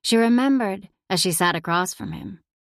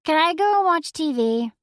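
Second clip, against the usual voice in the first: put-on much higher, eager child voice; young girl voice; 9 semitones higher than usual. A narrator's reading. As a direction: ask like an eager kid. Zoe asking.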